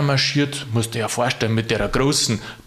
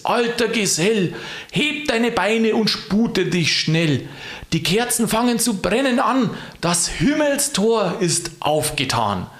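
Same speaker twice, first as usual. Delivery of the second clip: high, clear calling voice; 5 semitones higher, slower than usual. Acted. Christkind sending Knecht Ruprecht off, high declaiming voice. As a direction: proclaim it high, easing down by the end. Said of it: "rief's mich mit heller Stimme an".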